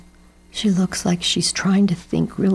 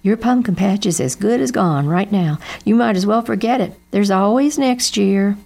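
gently resigned mom; Mama breaks the news to Jeb; lightly voiced mother; 4 semitones higher, 4 dB louder than usual. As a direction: soothe him with a sigh. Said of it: "said Mama".

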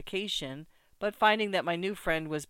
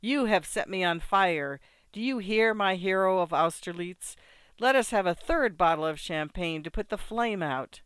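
mad exhilaration; 2 semitones higher, 5 dB louder than usual. Acted. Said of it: "in a mad state of exhilaration".

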